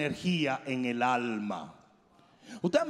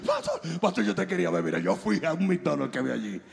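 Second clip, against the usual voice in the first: hammed-up excited congregant; excited churchgoer. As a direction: gush at the pastor like a breathless fan. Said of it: "y te dice".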